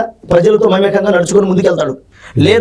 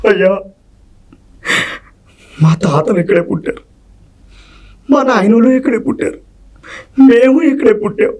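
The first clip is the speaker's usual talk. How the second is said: begging the landlord, voice rising in places; a poor farmer pleading for his land at the master's feet. Acted. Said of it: "ఆ తన్నినప్పుడు ఆ reflection ఎలా ఉంటది?". (భూస్వామిని వేడుకుంటున్న పేద రైతు గొంతు)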